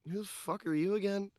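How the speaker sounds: Dino. Acted. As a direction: ask it high, without pushing the volume. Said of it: "Dino's voice go".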